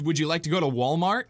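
British accent. Shown as a demonstration. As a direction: ask it as a cartoon Brit. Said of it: "They don't do L's".

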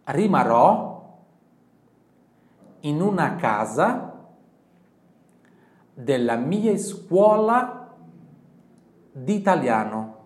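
very slow, loud, word by word; slow repeat model. Shown as a demonstration. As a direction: spell the sentence out slowly for the class. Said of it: "Sempre em voz alta". (frase lenta e alta, palavra por palavra)

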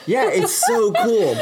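laughing through the words. Real, not acted. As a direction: giggle it out tipsily. Tipsy laughing after joke.

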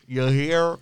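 put-on Southern accent. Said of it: "let's talk in Southern accents".

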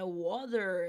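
water with the final R sounded; American water. Shown as a demonstration. Teacher repeating American water with the final R. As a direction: give water its R at the end. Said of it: "a gente pronuncia esse R no final".

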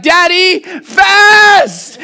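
high shrieking shout of "Daddy, fast!"; toddler shouting. Retold or imitated. Toddler son drags dad from the table, shouting. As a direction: yank dad up with the voice. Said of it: "and he's like".

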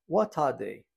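ordinary delivery

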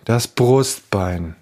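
„Brustbein“ sehr langsam und deutlich Silbe für Silbe; „Brustbein“ pedantisch gedehnt, jede Silbe betont. Retold or imitated. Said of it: "Pingeliger Pedant". („Brustbein“ übertrieben deutlich und langsam)

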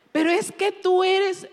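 high, whiny mock girl complaining about homework; whining daughter. Pastor imitating her daughter Samantha whining about homework. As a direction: whine like a teen against strict mom.

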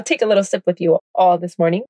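talking around a sip of coffee; while sipping a drink. Real, not acted. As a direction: speak with a mug at your lips. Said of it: "if you hear me sipping in the back".

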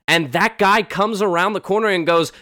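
normal talking voice

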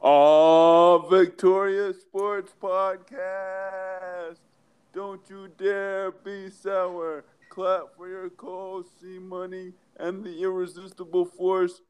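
lightly voiced hype entrance call; Big E New Day intro. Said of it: "blessing us with the Big E New Day intro".

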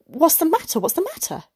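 flustered stutter. A narrator's reading. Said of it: "He stuttered".

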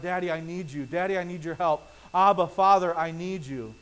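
soft, humble plea to Father; quiet prayerful plea. Retold or imitated. Believer in prayer calling out to God, soft and humble. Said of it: "for them to cry out".

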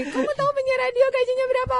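high, fast mock of a doubtful father; hammed-up disbelieving parent voice. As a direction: squeak it out like a scoffing parent. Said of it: "langsung sok gini".

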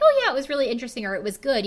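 quick, offhand polite answer; breezy, no fuss; casual. Shown as a demonstration. Podcaster showing a normal reply, casual and quick. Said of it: "You could just be like".

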